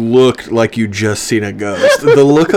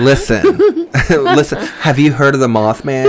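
put-on college girl voice. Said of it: "do your college girl voice".

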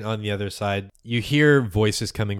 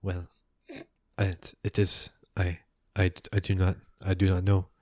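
halting, groping for words; half-awake cultist. Acted. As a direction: stumble as if just woken from a dream. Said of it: "their minds are half working".

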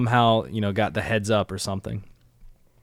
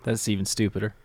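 1 whispered aside; 6 dB quieter than usual. Real, not acted.

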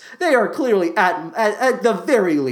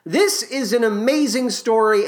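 normal talking voice

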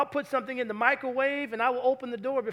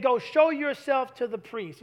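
slow, deliberate quote. Shown as a demonstration. Preacher quoting Jesus slowly to the congregation. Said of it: "He said".

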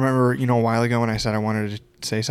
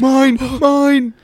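high, loud bird squawk of mine; 8 dB louder than usual. Pretend. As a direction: screech it like a greedy bird. Seagull-like squawk, crows sprinting.

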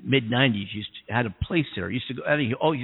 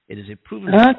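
emphatic; 10 semitones higher, 12 dB louder, faster than usual. Real, not acted. Emphatic claim.

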